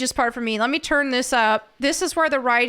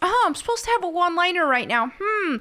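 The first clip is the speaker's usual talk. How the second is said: mocking put-on hero voice, higher pitch; 5 semitones higher than usual. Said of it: "and he's just".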